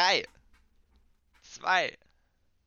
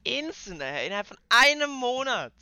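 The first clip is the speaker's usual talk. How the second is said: high, loud bragging scam hype; shrieking jackpot winner; 7 semitones higher, 15 dB louder than usual. Acted. Parody rich scam influencer.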